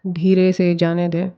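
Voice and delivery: calm guided meditation voice with long pauses. Acted. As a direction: guide the listener gently into breathing, pausing between phrases. Leads a guided visualization. (शांत निर्देशित ध्यान की आवाज़)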